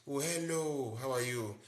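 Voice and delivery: bright rising greeting; normal lively tone. Shown as a demonstration. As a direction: greet with a lively lifted pitch. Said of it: "not talking like the normal".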